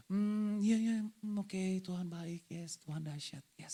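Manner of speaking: soft, slow, trailing-off murmur; murmuring to oneself. Shown as a demonstration. Preacher showing his congregation what murmuring is, murmured softly. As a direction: hum and mumble contented praise under your breath. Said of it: "Tahu bergumam?".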